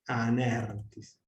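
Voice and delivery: anertis slow and joined, tis falling away unstressed; enclitic demonstration. Shown as a demonstration. Teacher repeats the enclitic example, anertis as one word. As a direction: draw out ner in anertis, drop tis. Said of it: "tis es enclítico".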